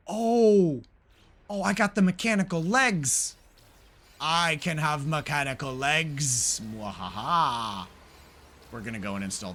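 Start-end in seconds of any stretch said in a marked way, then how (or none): 0.1-6.6 high, loud burst of delight; thrilled at the new unlock; excited. Real, not acted. Finds mechanical legs reward. 6.6-7.9 slow maniacal villain cackle; hammy evil laugh, drawn out; wild unhinged ranting. Acted. Gloats over mechanical legs.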